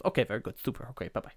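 lightly voiced, lilting cartoon waiter; Julio from The Simpsons. Waiter leaving the table, lightly done cartoon lilt. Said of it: "I know that was Julio from The Simpsons".

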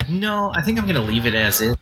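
choppy connection; cutting out. Real, not acted. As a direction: call breaking up. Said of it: "you're, you're cutting out again".

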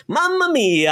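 put-on high, sung-out Italian accent; Italian stereotype. Mocking the stereotypical Mario line in a high Italian accent. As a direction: belt it like a cartoon Italian. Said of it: "a heavy Italian accent".

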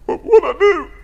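high surprised squeak of a question; startled. Retold or imitated. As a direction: jump up in pitch, caught off guard. Caller in tears, startled reply.

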